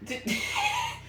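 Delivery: thin, very high stunned squeal; high-pitched incredulous giggle; high squealing laugh. Real, not acted. Shocked laughing at the video.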